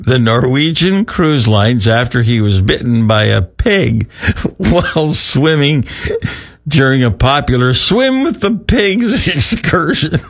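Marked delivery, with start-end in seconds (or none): 3.4-10.3 laughing. Real, not acted. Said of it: "try and keep a straight face".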